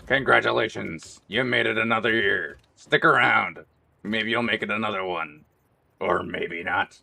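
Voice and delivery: menacing soldier sneer, slowing at the end; mock taunt. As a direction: taunt the recruit like a sergeant. Mock drill sergeant taunt.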